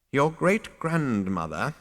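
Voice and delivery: put-on slow, thoughtful old man; musing old ghost. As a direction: muse aloud, slow. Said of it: "mused the gaunt little figure".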